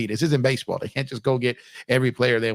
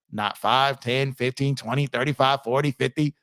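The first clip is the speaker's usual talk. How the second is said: rattling off numbers like an auctioneer; quick auction-style bidding count. Shown as a demonstration. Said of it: "Sound like an auctioneer over here".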